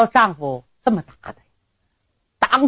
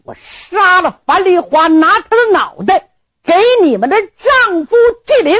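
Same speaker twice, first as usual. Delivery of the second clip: furious vow; 9 semitones higher, 3 dB louder than usual. Acted. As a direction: spit out the threat, high and heavy. Groom vows to kill bride.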